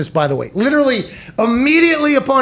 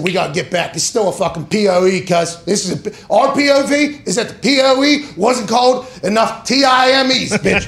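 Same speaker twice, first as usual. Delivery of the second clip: mock league official. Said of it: "This week they said".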